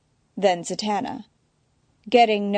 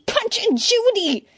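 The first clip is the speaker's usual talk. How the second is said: muttering; 4 dB louder, slower than usual. Acted. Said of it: "now muttering".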